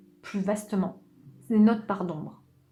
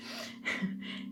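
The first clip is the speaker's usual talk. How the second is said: burp; 11 dB quieter than usual. Real, not acted. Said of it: "j'ai roté".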